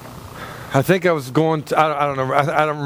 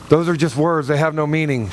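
mocking echo; 2 semitones lower than usual. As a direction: toss her line back at her to tease. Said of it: "I went".

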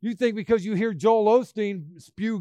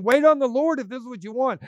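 higher-pitched urgent exhortation; emphatic, excited; 5 semitones higher, 3 dB louder than usual. Acted. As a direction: press it home with excitement. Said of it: "He's emphatic and he's saying".

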